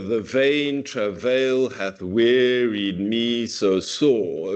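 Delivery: slow, da-DUM beat pressed onto 'The vain travail hath wearied me so sore'; forced iambic meter. Shown as a demonstration. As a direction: force the line into strict iambs, slowly. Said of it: "we would be slightly forcing".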